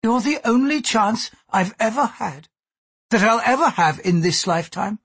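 high-pitched, controlled plea; sincere. A narrator's reading. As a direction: confide the real reason, earnest and controlled. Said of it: "said with complete sincerity".

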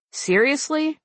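put-on high incredulous valley girl; drawn-out Valley Girl disbelief. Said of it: "my inner Valley Girl voice come out".

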